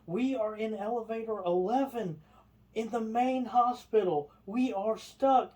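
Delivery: high, loud plea into the box; hammed-up yelling. Lady shouting into the call box, high pleading. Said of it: "scream into this, into this box".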